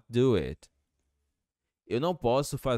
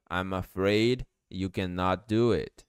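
slow model sentence. Shown as a demonstration. Teacher models slowly, then faster.

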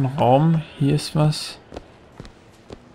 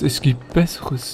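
slow repeat; slower than usual. Real, not acted. Repeats lukewarm verdict, slowed down.

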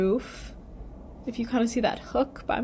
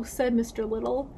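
lively, clearly paced storybook reading; story read-aloud. A narrator's reading. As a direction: read it to children, lifting the characters' lines. Reads story to children.

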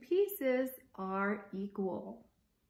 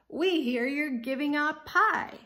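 loud, higher gangster threat; menacing; 5 semitones higher, 7 dB louder than usual. Acted. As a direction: lean on them like a gangster.

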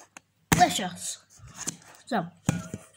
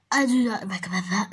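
fake crying; 4 semitones lower than usual. Real, not acted. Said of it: "I'm crying".

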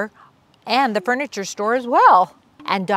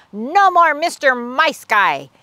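slow, louder action-hero line; tough-guy taunt; 3 semitones higher, 4 dB louder, slower than usual. Acted. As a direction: deliver it like a movie hero.

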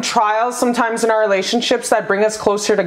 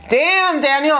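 higher playful damn Daniel; light mock meme voice; meme quote; 4 semitones higher than usual. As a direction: toss off the meme line. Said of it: "Damn, Daniel meme".

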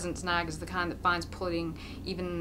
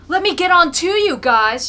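higher, loud call from the crowd; eager shout; 10 semitones higher, 16 dB louder than usual. A narrator's reading. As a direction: shout to join the fun. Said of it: "shouts a young fellow".

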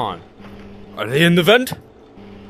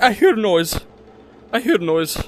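fading repeat; 5 semitones higher than usual. Pretend.

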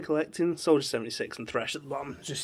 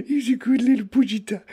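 laughing; 7 semitones higher, 4 dB louder than usual. Real, not acted. Giddy gushing over figure.

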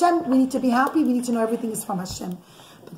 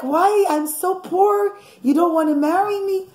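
put-on pleading girl; 6 semitones higher than usual. Osnat pleading with the king.

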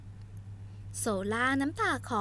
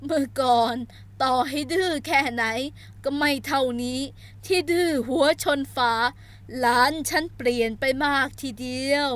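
put-on old grandmother; 5 dB louder than usual. Grandmother voiced.

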